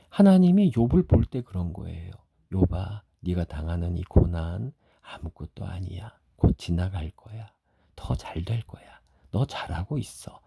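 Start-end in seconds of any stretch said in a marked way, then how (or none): 2.5-10.4 gentle fatherly comfort, softening toward the end; fond reassurance. Acted. God comforting suffering Job, fondly reassuring. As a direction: reassure tenderly, dropping almost to a hush. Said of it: "하면서 그렇게 웃으시는 거예요".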